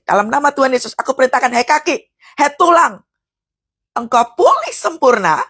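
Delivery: firm commanding declaration, rising in pitch; forceful prayer of command; prophetic prayer. Shown as a demonstration. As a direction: order it with authority. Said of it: "doa profetik seperti ini".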